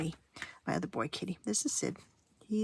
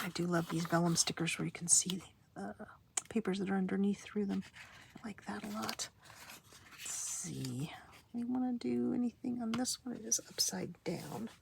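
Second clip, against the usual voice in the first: whispering. Real, not acted.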